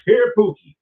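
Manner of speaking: hyped name call. Real, not acted. Repeats name as announcement.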